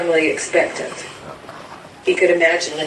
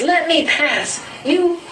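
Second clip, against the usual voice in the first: desperate shout; 11 semitones higher than usual. Retold or imitated. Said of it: "He says".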